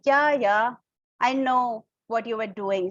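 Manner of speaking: mildly sarcastic, disbelieving. Shown as a demonstration. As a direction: show you don't believe your friend. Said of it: "So that is a sarcastic tone".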